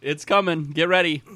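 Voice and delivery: talking through a mouthful of candy; words round a bite of candy; mouth full. Real, not acted. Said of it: "Talk with your mouth full".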